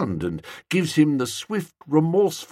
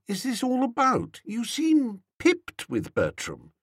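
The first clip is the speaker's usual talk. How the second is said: gentle; 8 semitones higher, 5 dB quieter than usual. Acted. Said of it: "I said gently".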